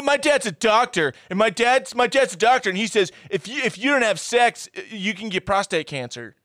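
high, smug excuse; lightly hammed-up liar; mock Barry. Barry lying to Jenny about his dad, high mock voice.

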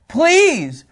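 high, drawn-out plea; acted desperate plea; begging. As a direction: beg insistently, pitch swooping down. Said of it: "They begged us insistently".

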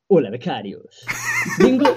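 trying not to laugh. Acted. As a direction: laugh breaking through the greeting. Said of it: "por favor, no te rías".

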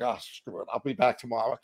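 low, soft, defeated devil voice; mock Satan. Satan quitting on him, mock low devil mutter. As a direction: play a devil who can't be bothered.

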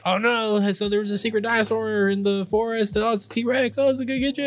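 spooky storyteller voice. Retold or imitated. Friend's spooky ride-operator voice.

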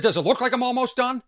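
retold mock indignation; mock indignant comeback. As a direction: toss it back with mock outrage. Retold comeback to gym kids.

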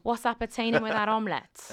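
hammed-up Welsh impression; Nessa. Shown as a demonstration. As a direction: play it big in valleys Welsh. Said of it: "the best Welsh is Nessa".

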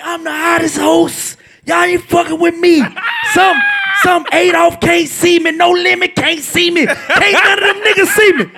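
high, drawn-out bragging; boastful hype. Retold or imitated. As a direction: imitate a club host hyping himself. Imitates Sport's boastful hype.

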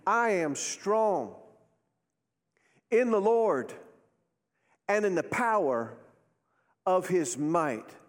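slow, spaced-out phrases for repeating; leading a declaration. Shown as a demonstration. Preacher leads congregation in saying it, slow declaration. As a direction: declare it firmly, pausing after each phrase. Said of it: "Say it with me".

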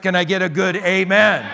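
rally the church for an amen; call for amen. Real, not acted. Calls congregation for amen.

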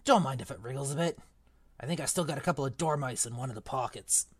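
a hint of Hagrid, rueful; lightly voiced gamekeeper regretting his temper. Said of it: "wrong voice for Hagrid".

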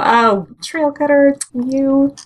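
playfully doting, lifted and lingering; fond mock scolding. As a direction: gush slowly over a lovable character. Fond gushing aside to character.

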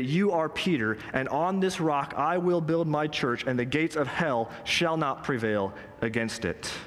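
slow, emphatic declaration; firm, weighty scripture quote; definitive. Retold or imitated. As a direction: declare it with settled authority, taking your time. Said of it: "Jesus says so definitively".

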